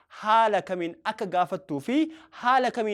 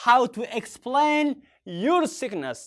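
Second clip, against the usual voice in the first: slow, calmer repeat at usual level; 3 semitones higher, much slower than usual. Shown as a demonstration. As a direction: say it again slowly for learners. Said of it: "Say that".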